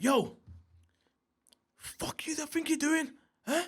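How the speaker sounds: high, strained re-enacted rant; worked-up, high-pitched outburst; angry shouting. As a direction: act out going mad at officers. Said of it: "I'm shouting, I'm going mad".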